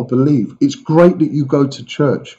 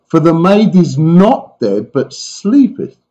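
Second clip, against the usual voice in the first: slower, rising, drawn out; solemn declaration; 3 semitones higher, slower than usual. Acted. Jesus telling the mourners slowly that she sleeps. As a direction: proclaim it slowly, with weight.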